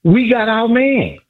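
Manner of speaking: slow, high, triumphant; excited drawn-out cheer. Real, not acted. Caller to host, gloating slow and high. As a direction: savor every word of the win.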